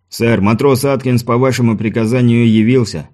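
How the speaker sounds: barely there Irish lilt; a faint hint of Irish accent; slight Irish accent. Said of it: "с едва уловимым ирландским акцентом".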